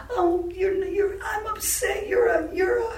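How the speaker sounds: high, halting, upset voice; imitated tearful mother. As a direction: imitate a crying mother struggling to get it out. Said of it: "my mother suddenly burst out crying".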